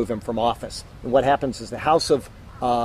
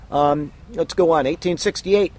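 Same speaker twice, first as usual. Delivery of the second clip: frog in throat; 4 semitones higher than usual. Real, not acted. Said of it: "I got a little frog in my throat today".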